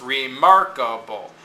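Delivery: remarkable with only MARK stressed. Shown as a demonstration. Teacher letting students hear it, remarkable with MARK stressed. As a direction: punch mark in remarkable, rest light. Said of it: "Notice it's not remarkable".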